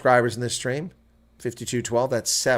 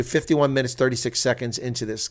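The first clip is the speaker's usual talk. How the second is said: ordinary delivery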